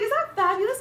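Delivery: loud, high, incredulous question; re-enacted excited yell of recognition; star-struck shout. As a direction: shriek it as you spot a celebrity.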